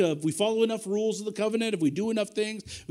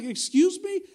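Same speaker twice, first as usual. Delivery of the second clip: surprised disbelief; 9 semitones higher, 5 dB louder, slower than usual. Retold or imitated. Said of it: "I was like".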